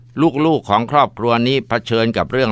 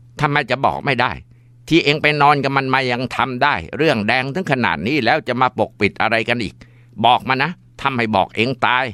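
angry scolding; 4 semitones higher than usual. Acted. Mother scolding and threatening daughter.

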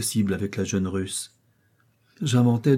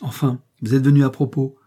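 put-on higher, louder commanding young lady; haughty princess; 4 semitones higher, 4 dB louder than usual. Princess giving orders to the man she takes for a boatman, haughty.

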